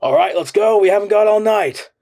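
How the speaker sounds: loud, high boom from nowhere. A narrator's reading. The unseen voice booming at the prisoner, loud and impatient. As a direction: bellow it down at him impatiently. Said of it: "A voice boomed at him".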